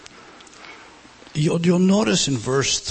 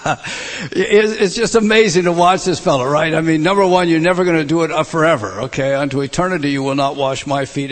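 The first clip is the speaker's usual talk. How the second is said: amused delight; 2 semitones higher, 4 dB louder than usual. Real, not acted. Preacher delighting in impetuous Peter, laughing excitement. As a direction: marvel at Peter with a chuckle.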